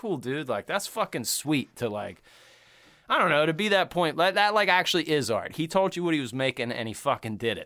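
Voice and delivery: ordinary talk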